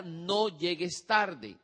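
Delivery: slow, dragged-out warning; slow vague warning to a teen; the wrong way, drawn out. Shown as a demonstration. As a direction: stretch it out like a vague parental order. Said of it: "Entonces no le diga".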